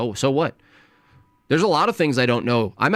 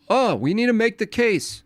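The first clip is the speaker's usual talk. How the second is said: mock pleading; 9 semitones higher than usual. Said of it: "It's like".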